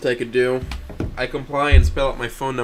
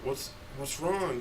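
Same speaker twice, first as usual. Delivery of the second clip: slow, soft, sneering; smug taunt; 3 semitones higher, 14 dB quieter, slower than usual. Acted. Dead friend Nazar taunts him in the reflection, slow and smug. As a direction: drag it out like a smirking ghost. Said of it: "with a laugh and flashes a smug smirk".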